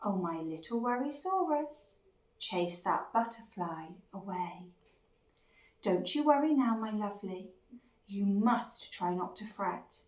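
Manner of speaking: tender, gently lilting comfort; soothing mummy. Acted. Mummy comforts her little Worrysaurus, soothing. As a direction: ease off and reassure a worried little one.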